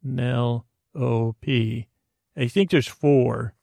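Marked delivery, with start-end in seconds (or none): 0.0-0.6 Penelope split into puh, nel, o, pee with pauses; syllable by syllable. Shown as a demonstration. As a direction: sound out Penelope one isolated syllable at a time. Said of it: "I don't know how many syllables".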